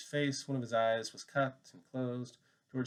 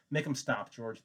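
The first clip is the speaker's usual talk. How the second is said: terrified cry; slower than usual. Acted. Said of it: "He cried".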